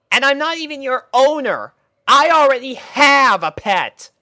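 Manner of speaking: high, loud exasperated rant; angry scolding. A narrator's reading. Rainbow scolding the puppies who keep following. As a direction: tell them off, fed up.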